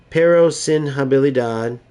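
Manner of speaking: "pero sin habilidad" in a put-on Spanish accent. Shown as a demonstration. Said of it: "You guys like my, uh, Spanish accent?".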